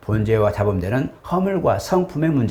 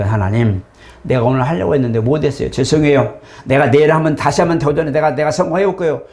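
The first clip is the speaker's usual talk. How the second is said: prayer demo. Shown as a demonstration. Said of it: "도전이잖아요".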